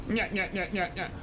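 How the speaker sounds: sing-song taunting. Acted. Taunting frozen dragon.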